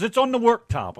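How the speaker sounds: a lightly voiced British wife; imitating the British wife. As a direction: mimic his wife's British "worktop". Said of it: "So she says".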